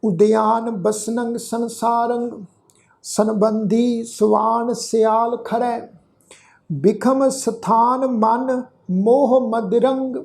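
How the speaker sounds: slow, measured verse reading with held vowels; drawn-out devotional reading; scripture recitation. Shown as a demonstration. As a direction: recite the sacred verse slowly, stretching the endings.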